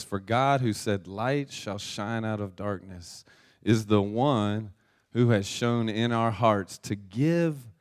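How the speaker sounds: slow, deliberate verse reading; scripture reading. Acted. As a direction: read the verse out slowly, phrase by phrase. Reads scripture aloud to congregation.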